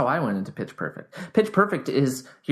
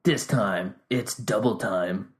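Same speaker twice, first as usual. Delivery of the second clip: low, slow trailer announcer; 3 semitones lower, slower than usual. Acted. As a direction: announce it like an action movie. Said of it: "like you're in freaking Mortal Kombat".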